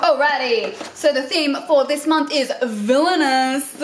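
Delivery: drawn-out, hosty theme announcement; cheesy game show host. Real, not acted. Vlogger revealing the box's theme to viewers, cheesy host voice. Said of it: "I sound like a cheesy game show host".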